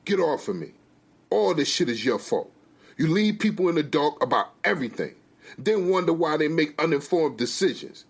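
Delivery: angry scolding. Acted. Wife berates husband, jerking away.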